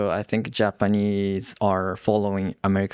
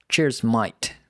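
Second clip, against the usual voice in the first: Australian cheers mate. Shown as a demonstration. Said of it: "Australian people say".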